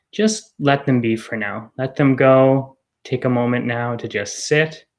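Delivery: calm guiding voice with long pauses; guided meditation. Real, not acted. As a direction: ease listeners gently into the present moment, unhurried. Leads an arrival meditation.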